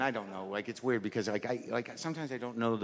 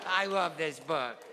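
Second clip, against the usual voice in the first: put-on higher-pitched, singsong kid telling a favorite story; eager child reciting storybook; 9 semitones higher than usual. Child shows off the book mom got them, earnest kid voice. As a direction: recount it like an earnest little kid, judging the silly man.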